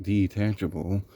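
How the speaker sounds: detachable said with a doubtful rising scare-quote tone; mock the word detachable with a skeptical rise; sarcastic air quotes. Shown as a demonstration. Reviewer scoffing at the so-called detachable cord, sarcastic. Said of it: "quote unquote".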